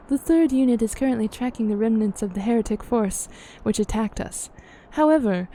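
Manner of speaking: measured, formal fantasy character reading; game dialogue read-aloud. Acted. Character weighing up the myth of Shiva, formal dialogue reading.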